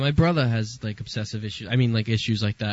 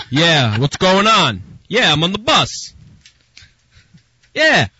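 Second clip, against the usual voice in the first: loud phone talker; 6 semitones higher, 4 dB louder, slower than usual. Retold or imitated. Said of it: "you're woken up by".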